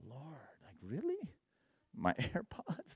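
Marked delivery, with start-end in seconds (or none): 0.1-1.2 incredulous protest. Retold or imitated. Protesting to the Lord.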